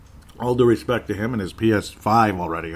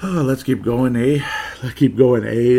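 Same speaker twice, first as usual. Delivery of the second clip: jokey Irish Canadian lilt with a tagged eh; Irish Canadian accent; 4 dB louder than usual. Pretend. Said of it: "a Canadian, Irish Canadian, I guess".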